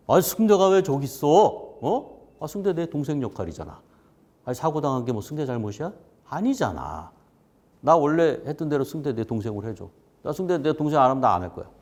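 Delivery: 동생 같은 후배를 감싸며 버럭 따지는 선배 흉내; 버럭 화내기. Retold or imitated. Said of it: "버럭 부르시더니 그러는 거예요". (선배가 버럭 화내는 말투 재연)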